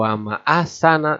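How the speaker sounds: wama ahsana with the nun dropped and the a stretched; wrong reading. Shown as a demonstration. Teacher demonstrates reading with the nun dropped. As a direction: show the swallowed nun. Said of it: "Tidak begitu".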